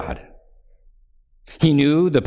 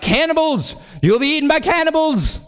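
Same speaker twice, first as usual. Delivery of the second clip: much higher, frantic warning cry; elderly man crying out. Retold or imitated. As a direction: cry out the old man's alarm. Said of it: "crying out".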